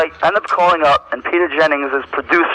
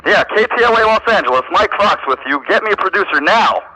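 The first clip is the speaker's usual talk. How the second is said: brisk, demanding, pitched up; bossy fake TV man; 6 semitones higher than usual. Prank caller bossing station staff, pushy and demanding. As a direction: push the station staff around.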